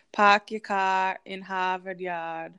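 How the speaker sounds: put-on slow, light Boston accent with dropped R's; mildly put-on Boston accent, words drawn out slowly. Host quoting Boston locals for her co-host, slow light Boston accent. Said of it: "You nailed that".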